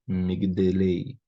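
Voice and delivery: "Migdelei" spelled out slowly, the G silent and clipped; "Migdelei" said slowly, G kept silent; slow syllable demo. Shown as a demonstration. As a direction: draw out "Migdelei" syllable by syllable, gliding past the mute G. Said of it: "Um G mudo aqui".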